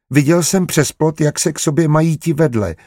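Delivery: put-on high-pitched child chiming in; little boy. A narrator's reading. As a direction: pipe up like an eager small boy. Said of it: "ujal se slova Ignác".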